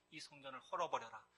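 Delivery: hushed scripture quotation; quiet recitation. Acted. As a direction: recite the command quietly, without force. Same quote repeated quietly as text.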